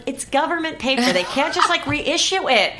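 high, pleading protest, slowing at the end with a laugh; you can't believe they won't just reissue it; exasperated. Retold or imitated. Wife arguing with customs officers, high exasperated protest. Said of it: "And then I'm like".

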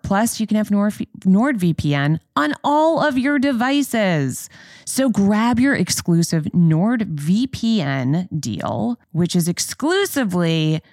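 brisk upbeat sponsor read. Acted. Host reading the VPN sponsor spot to listeners, brisk ad voice. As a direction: sell it quickly and cheerfully.

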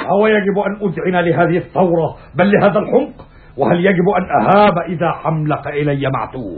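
high scornful question; seething anger. Acted. Brutus scorns Cassius' rage.

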